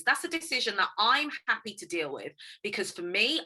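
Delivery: ordinary delivery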